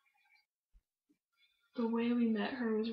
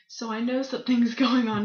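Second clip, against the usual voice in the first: laughing; 8 dB louder than usual. Retold or imitated. Retelling confronting her friend.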